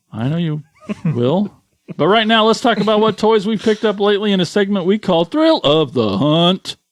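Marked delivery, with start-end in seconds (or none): 5.2-6.7 announcer-style sing-song delivery with wide pitch swoops. Announce the name of the segment about toys in a Stephen Hawking voice. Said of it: "Thanks, Stephen Hawking".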